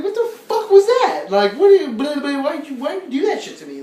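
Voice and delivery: loud, high-pitched incredulous retort; baffled outburst. Retold or imitated. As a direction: demand an explanation, stumbling over the words. Baffled retort to friend's babbling.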